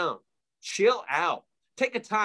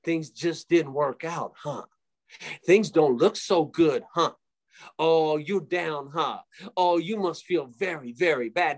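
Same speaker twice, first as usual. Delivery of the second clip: lightly voiced Satan. Satan tempting someone into a pity party, lightly mocking sympathy. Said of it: "that's Satan. He's like".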